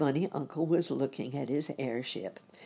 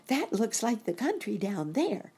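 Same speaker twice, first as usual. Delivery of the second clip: put-on higher, childlike voice; boy rabbit; 8 semitones higher than usual. A narrator's reading. Boy rabbit sighting the country from the airship, high child voice. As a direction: speak up high as a little boy.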